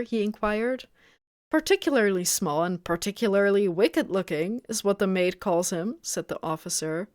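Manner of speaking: measured audiobook-style reading; story narration. A narrator's reading. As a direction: read the story aloud evenly. Reads the novel aloud.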